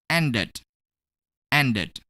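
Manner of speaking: "ended" in two distinct syllables; ed as extra syllable. Shown as a demonstration. Teacher modelling "ended" for learners, ed as a separate syllable. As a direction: demonstrate "ended" with the ed sounded as its own syllable. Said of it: "we're gonna pronounce ed as it".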